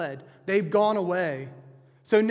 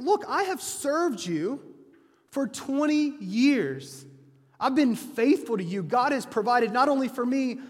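berating; 4 semitones higher than usual. Retold or imitated. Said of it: "he berated Laban".

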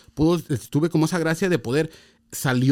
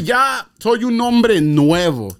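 proud declaration; 3 semitones higher, 3 dB louder, much slower than usual. Real, not acted. Convert telling his friend he was reborn, slow and proud. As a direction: announce it like a testimony.

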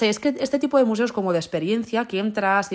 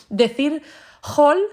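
pained; 8 semitones higher, 6 dB louder, much slower than usual. Real, not acted. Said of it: "no sé qué me duele más".

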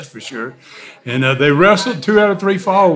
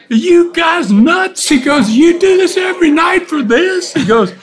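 retold outraged disbelief; 13 semitones higher, 4 dB louder than usual. Underpaid rookie wrestler to the men who hired him, loud and outraged. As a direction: act out a cheated man hollering in disbelief.

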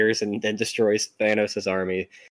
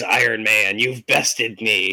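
slow theatrical villain menace; 3 dB louder, slower than usual. Retold or imitated. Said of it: "no villain speech, no curses".

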